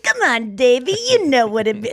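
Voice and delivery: easygoing dad calling his son; surfer dude. Retold or imitated. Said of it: "a guy that talks like this".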